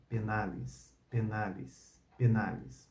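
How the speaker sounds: "penales" slow and soft, ending like "penalis"; ecclesiastical Latin. Shown as a demonstration. Teacher repeats the word carefully for learners. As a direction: say "penales" with care, each vowel clear. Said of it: "que eu vou pronunciar três vezes".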